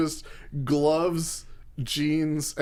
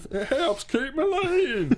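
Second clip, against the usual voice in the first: high, slow squeaky imitation; high squeaky Ricochet voice; 11 semitones higher, slower than usual. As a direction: squeak it like a cartoon wrestler. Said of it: "that's exactly how he sounds".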